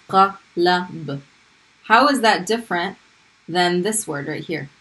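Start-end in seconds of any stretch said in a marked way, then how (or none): 0.1-1.2 Qalab with open a on both first letters, qa-lab; fatha on both. Shown as a demonstration. Arabic teacher showing the fatha on both letters, clear qa-lab. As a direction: say Qalab with two short open a sounds. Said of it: "I'm pronouncing a fatha on both first two letters".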